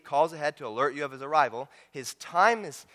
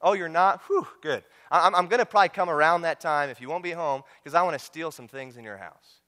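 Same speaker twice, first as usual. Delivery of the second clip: mock polite thief phone call. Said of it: "what thief calls up your house and says".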